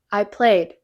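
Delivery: ordinary delivery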